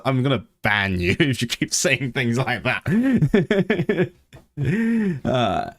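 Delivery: playful warning breaking into laughter; threaten, but crack up midway; laughing mock threat. Real, not acted.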